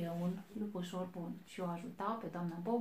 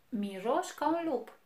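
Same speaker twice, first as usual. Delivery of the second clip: higher, louder sniffing verdict; big bad wolf; 5 semitones higher, 6 dB louder than usual. A narrator's reading. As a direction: sniff him out, a bit louder. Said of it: "L-a mirosit și a zis".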